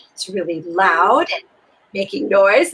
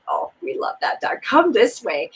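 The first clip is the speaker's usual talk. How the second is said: soft inner voice; 2 semitones higher than usual. Retold or imitated. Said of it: "it's going".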